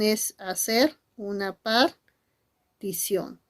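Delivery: whispered, slow key step. Shown as a demonstration. Teacher whispering the key step to students. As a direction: lean in and whisper it slowly. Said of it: "teacher whispers key step".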